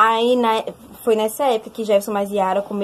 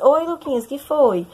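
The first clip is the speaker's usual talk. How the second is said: mock composed greeting, pitched up; swallowed tears; 4 semitones higher, slower than usual. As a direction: act as if nothing is wrong, hiding the crying. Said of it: "Aí eu engoli o choro". (engolindo o choro, fingindo estar bem)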